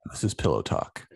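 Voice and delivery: very low, hushed late-night radio host; Alan Allman. Acted. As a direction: murmur it deep and sleepy, like pillow talk. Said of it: "you sound like Alan Allman".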